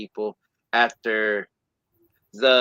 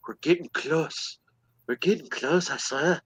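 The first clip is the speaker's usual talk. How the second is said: put-on lightly Irish-tinged kid's line; a hint of accidental Irish lilt; 3 semitones higher, 4 dB quieter than usual. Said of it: "I just talked Irish".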